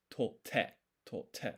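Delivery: "to te" with a held, doubled T before te; double T sound. Shown as a demonstration. Learner demonstrating the small tsu: held double T. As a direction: linger on the T in "to te" to show it doubles. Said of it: "two T's".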